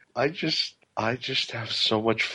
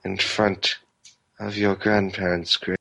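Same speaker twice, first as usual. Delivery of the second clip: creepy voice. Acted. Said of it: "Creepy creeper".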